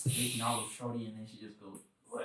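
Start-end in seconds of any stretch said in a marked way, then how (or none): 2.1-2.2 mock retch, "wah"; imitated vomiting. Friend imagining his date being sick, imitated retching. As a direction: act out a sudden barf. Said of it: "Just barfs it".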